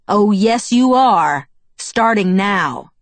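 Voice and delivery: loud and high, slowing to finish; angry overruling. A narrator's reading. Father grounds his grown daughter, angrily overruling her. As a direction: overrule her, hammering the last words slowly.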